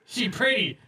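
slow, choppy broken-English boss voice; blunt boss imitation. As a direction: drawl it out like a blunt, tactless manager. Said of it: "He was like".

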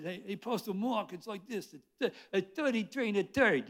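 the Bronx man teaching the pastor; Bronx accent. Retold or imitated. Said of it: "guy ... from the Bronx".

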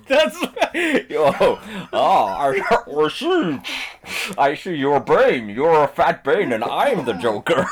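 mock Joker voice; hammy cackling villain. Acts Joker against Bane.

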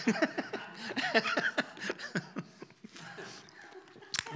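giggling through a cheeky joke; high laughs breaking up the words; laughing. Real, not acted. Guest jokes about an awkward day, laughing.

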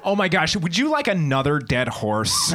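fussing mom. Acted. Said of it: "my mom would just pop up".

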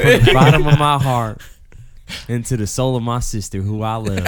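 put-on Forrest Gump-like Southern accent; mock-earnest Southern declaration. Friend declares mock love for his sister, Southern accent. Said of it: "you sound a little, a little Forrest Gumpy".

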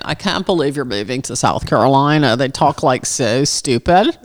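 put-on California girlfriends. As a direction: imitate a girlfriend, dragging the last words. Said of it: "my California girlfriends were saying".

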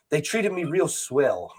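put-on old radio voice. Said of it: "the radio voice that he put on".

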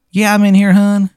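high-pitched, put-on Maryland voice; terrible Maryland accent. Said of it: "It's a terrible Maryland accent".

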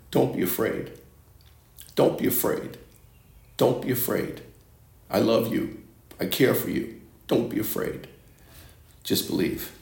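soft, breathy hush of comfort; tender whispered reassurance. Acted. Jesus gently reassures the frightened father, soft whisper. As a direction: whisper it like soothing a scared child.

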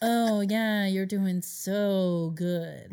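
slow, exaggerated fake praise; sarcastic. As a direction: drag out the sarcastic encouragement. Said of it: "Just sarcastic porn".

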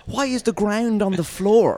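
high, slow mock question; exasperated, high-pitched sarcasm; sarcastic incredulity. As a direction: stretch out an absurd question in disbelief. Mocking a silly customer question.

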